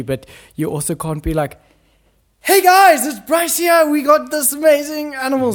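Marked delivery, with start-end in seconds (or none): 2.4-5.5 high-pitched, shouted greeting to camera; loud excited presenter. Acted. Mimicking an ecstatic presenter too close to animals, high excited shout. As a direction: shout it out like an overexcited wildlife host. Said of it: "that's a bit loud".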